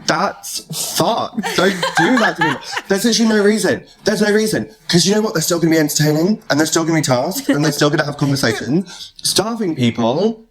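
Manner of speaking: mock-outraged scolding of TV producers; indignant rant. Real, not acted. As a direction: tell them off half-laughing. Ranting at producers.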